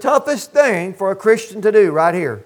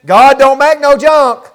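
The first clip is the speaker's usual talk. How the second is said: rising preacher emphasis on junk; preacher to congregation, driving it home louder; louder, punchier repeat; 2 semitones higher, 6 dB louder than usual. Shown as a demonstration.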